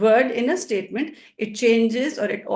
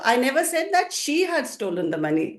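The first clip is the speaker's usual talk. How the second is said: "she" lifted above the rest; emphatic "she", pointing to the person; stress on SHE; 3 semitones higher than usual. Shown as a demonstration. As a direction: lean on the word "she". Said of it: "and she, when I stress them".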